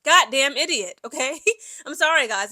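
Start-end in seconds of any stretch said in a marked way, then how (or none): 0.0-1.0 blunt, exasperated scolding; harsh tone. Acted. Commentator addressing the man's mom about her son, harsh tone. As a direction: tell it bluntly, with emphatic exasperation. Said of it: "harsh in my tone".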